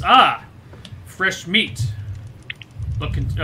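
gruff, loud raider taunt; feral wasteland raider. Acted. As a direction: sneer at the newcomers like a raider.

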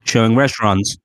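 loud mock computer announcement; voice assistant impression. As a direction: parody search-assistant readout. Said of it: "And he's like".

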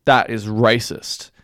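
slow, deliberate command; mock-heroic intervention. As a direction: draw it out like a self-appointed hero. Acting out his heroic confrontation.

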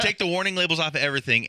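rattles it off through a laugh; laughing, fast. Real, not acted. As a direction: laugh while repeating the joke quickly. Repeating the meme, laughing.

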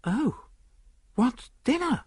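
high, irritated retort; impatient. A narrator's reading. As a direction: brush the question off impatiently. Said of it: "I said impatiently".

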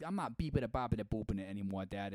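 put-on New York son pleading; first generation New Yorker. Son telling his Italian dad to leave him alone, New York accent. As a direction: argue your way out of Dad's shadow. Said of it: "I'm a first generation American".

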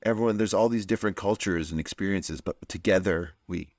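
put-on sentimental speech; mock saccharine. Friend parodying the sentimental stories of New York, mock saccharine. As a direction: parody an earnest, sappy tribute. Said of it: "the most saccharine, sentimental".

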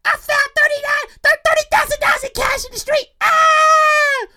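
high squealed announcement ending in a shriek; excited finder. Acted. Woman telling family about found cash, excited squeal.

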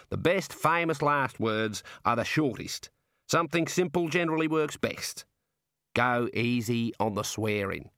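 chatty Aussie warder; warder with Australian accent. Acted. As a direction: play an easygoing Australian prison guard.

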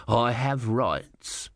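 slow, firm, every word planted; defiant small god. A narrator's reading. Om standing his ground before the Sea Queen, slow and firm. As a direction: dig in and insist. Om insists.

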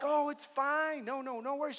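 high, light, hurried-away reassurance; retold reassurance. Passenger reassuring the girl who spilled water, retold. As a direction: play down the accident in a high voice.

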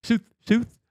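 Sooth, Sooth with an Irish oo vowel, high; Irish south. Retold or imitated. Mimicking the Irish wife saying Sooth, high. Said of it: "She would say".

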